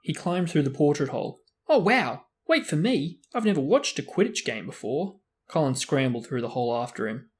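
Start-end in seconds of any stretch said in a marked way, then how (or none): 1.7-5.2 high, loud, eager wow; thrilled boy. Acted. Young fan running after Harry, high and eager. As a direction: chase after him in delight.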